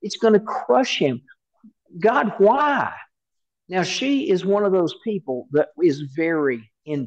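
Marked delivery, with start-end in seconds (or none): 0.0-2.9 a touch of a tearful cry to God, rising on the last why; understated despair, pleading upward; mild tearful plea. Retold or imitated. Grieving mother asking God why he let the toad die, mildly tearful. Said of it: "the tears are streaming down her face".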